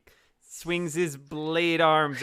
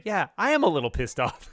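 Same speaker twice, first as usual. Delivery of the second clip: mock pissed-off reply; 5 semitones higher, 4 dB louder, faster than usual. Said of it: "for Steve to say".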